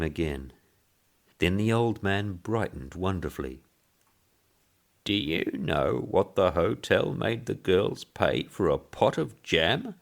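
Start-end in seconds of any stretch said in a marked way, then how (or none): 5.0-9.9 put-on high piping old man. Old man brightening to the boss, piping. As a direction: pipe the question brightly. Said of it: "he piped".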